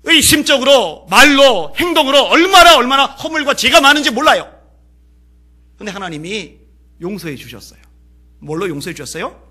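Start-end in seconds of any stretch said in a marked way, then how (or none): 0.0-4.5 fiery preaching. Real, not acted. Preacher crying out to the congregation about sin, full force. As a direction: build to a shouting climax.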